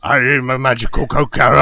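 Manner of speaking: dramatic trailer narration building to shouts; movie trailer voice. Pretend. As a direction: sell it like an epic war film trailer.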